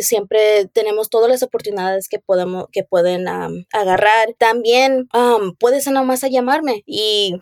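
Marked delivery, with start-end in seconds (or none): 4.4-7.4 wired on coffee, jittery; caffeinated and a bit scattered; too much caffeine. Real, not acted. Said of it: "tuve mucho café ahora". (acelerada por demasiado café)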